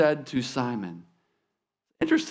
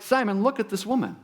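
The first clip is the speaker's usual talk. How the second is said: gentler request; 4 semitones higher than usual. Retold or imitated. Preacher voicing Jesus inviting Simon to look, gentle request. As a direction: gently urge him to look. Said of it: "I think he's just like".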